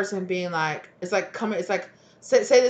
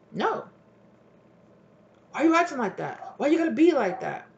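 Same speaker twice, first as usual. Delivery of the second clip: high mock whine; 8 semitones higher, 3 dB louder than usual. Partner voiced in retold scene.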